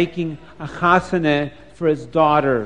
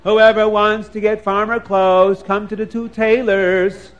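tailors' announcement; 4 semitones higher than usual. Acted. Reading out the tailors' market sign.

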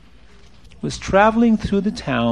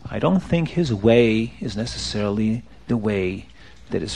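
low, soft, tactful reassurance; gentle counsel; 6 semitones lower, 4 dB quieter than usual. Acted. Baal Shem Tov consoles the penitent, gentle counsel. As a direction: ease him toward another way.

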